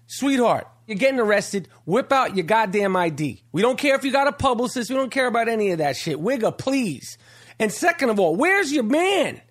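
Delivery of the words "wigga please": slow, drawn-out dismissal, stretching each word; drawn-out dismissive. Acted. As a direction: wave it off slowly, like a catchphrase. Catchphrase dismissing the arrested woman.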